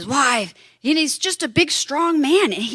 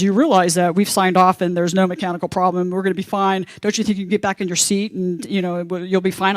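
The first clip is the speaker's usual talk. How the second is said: calm flight attendant; 4 semitones lower than usual. Retold or imitated. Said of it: "And she says".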